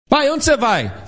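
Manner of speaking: put-on high, eager small child's voice; lightly voiced child; child asking dad. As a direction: sound like a little kid tugging at dad.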